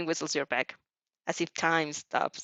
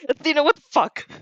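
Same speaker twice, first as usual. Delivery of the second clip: exasperated yell; 8 semitones higher, 7 dB louder than usual. Acted. Friend yelling at reader.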